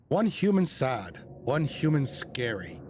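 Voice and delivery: slow, halting critter voice; slow possum voice. Acted. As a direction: speak slowly like a simple critter.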